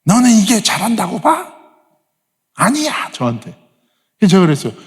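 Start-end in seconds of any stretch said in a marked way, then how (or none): 0.0-3.1 higher, mock indignant scolding; angry retort. Girls rebuke the Korean pastor, mock indignant. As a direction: imitate offended teenage girls. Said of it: "너무 화가 나는 거예요".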